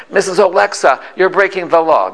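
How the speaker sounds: mock police reprimand; mild retold scolding. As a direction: scold her like a state trooper, mildly. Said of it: "they began scolding her".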